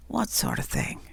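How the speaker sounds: low gruff growl. Acted. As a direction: growl it like a beefy bully. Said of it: "growled the other".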